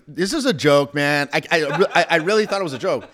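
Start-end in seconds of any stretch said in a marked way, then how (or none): 0.1-1.3 retold scoff. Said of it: "I'm like".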